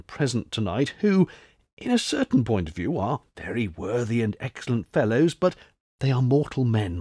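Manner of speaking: a hint of hushed, earnest counsel; confidential advice. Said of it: "in mysteriously confidential tones".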